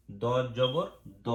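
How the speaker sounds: দ জবর দ read slowly as a short clipped da, no long a; slow recited letter. Shown as a demonstration. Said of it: "শুধু দ".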